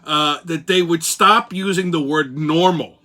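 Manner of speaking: put-on old-school Brooklynese; Brooklyn accent. Crazy train host mocking the news for listeners, Brooklynese. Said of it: "go with the old Brooklynese".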